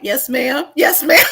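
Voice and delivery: put-on the boy caught out by the mother; a touch of mock fear; meek yes ma'am. Kenny meekly answering.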